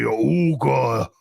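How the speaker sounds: low, booming alien gibberish; lightly voiced Jabba the Hutt, slow and low; a hint of a big alien gangster; mock Huttese. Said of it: "and then he'll, he'll be".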